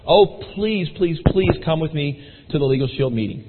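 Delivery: lightly acted plea, opening high; pleading. Customer begs salesman to join the meeting, mildly pleading. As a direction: beg them to come, imitating a friend. Customer begging him to come along.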